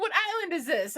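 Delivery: retold question with a laugh; laughing, imitating Kenny. Husband quoted laughing at the accents. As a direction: giggle through it, high and amused. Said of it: "He was like".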